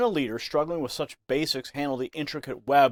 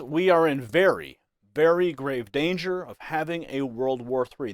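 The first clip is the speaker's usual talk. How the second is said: both verys leaned on, the second slowed and heavy; stress on very. Retold or imitated. News anchor quoting Trump's warning, stress on very. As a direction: press each very, drawing out the second. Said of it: "The emphasis on the word very twice".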